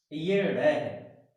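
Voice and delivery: very slow, ड flicked with one jerk of the tongue; flapped retroflex ड. Shown as a demonstration. Teacher demonstrating the jerked ड to the class. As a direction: flick ड off the roof of the mouth, drawn out. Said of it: "एक झटके के साथ इसका उच्चारण होता है".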